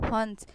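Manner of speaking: हंस with the n ringing through the nose; nasal resonance. Shown as a demonstration. Teacher demonstrating anusvara to students, nasal हंस. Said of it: "नाक की झनकार से इसको निकालते हैं".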